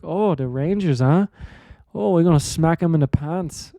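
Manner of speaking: light put-on Canadian accent; mock a Canadian accent, loosely; half-hearted attempt at a Canadian accent. Shown as a demonstration. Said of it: "put a little Canadian accent on it".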